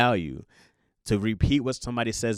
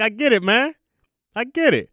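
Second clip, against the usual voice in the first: mock sympathy; 11 semitones higher, 7 dB louder than usual. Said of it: "I'm like".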